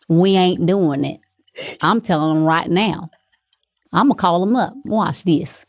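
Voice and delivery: put-on sassy Southern girl voice; Steph impression. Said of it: "Steph, she's like".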